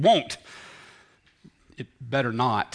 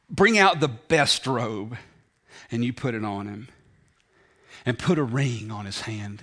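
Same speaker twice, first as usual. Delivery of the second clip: slow, weighty command; 4 semitones lower than usual. Acted. Father's command retold slowly.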